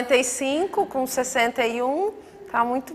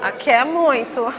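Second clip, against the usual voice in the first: laughing tease; 3 semitones higher, slower than usual. Real, not acted. Teasing an eager retiree.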